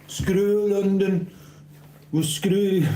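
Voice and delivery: high, drawn-out mock squeak; silly squeaky voice. Teasing a viewer who wants a London shout-out, in a squeaky voice. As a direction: squeak it out to tease.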